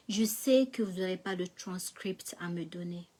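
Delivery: hushed unvoiced request; quietly asking the clerk at the desk; whisper.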